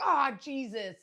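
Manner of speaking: high, loud mock disbelief; high loud shocked for real; shocked teen. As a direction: squeal it, stunned. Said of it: "And they're like".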